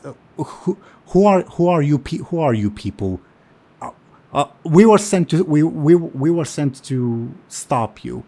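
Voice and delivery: high, loud, rushed stammering; a startled orc blurting out his challenge; flustered orc. Acted. Orc caught off guard asks the party who they are, high and stammering.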